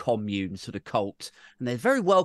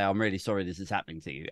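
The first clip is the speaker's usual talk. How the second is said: rushed hollow sorry, lightly voiced; mock insincere apology; 4 semitones lower, 4 dB quieter, faster than usual. Minister reciting an apology to flood victims, hollow and rushed. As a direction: rattle it off like she doesn't mean it. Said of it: "she has to stand there and say".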